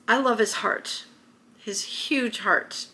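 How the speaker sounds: real emotion welling up as she speaks; quietly moved, voice thinning; getting emotional. Real, not acted. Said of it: "I'm getting emotional".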